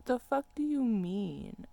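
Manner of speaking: slow, high, disbelieving retort; incredulous. Retold or imitated. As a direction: drag it out in disbelief. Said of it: "And I'm just like".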